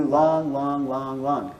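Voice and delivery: drawn-out, evenly spaced LONGs; long beats. Shown as a demonstration. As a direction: hold each LONG for two beats. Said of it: "each long is two beats".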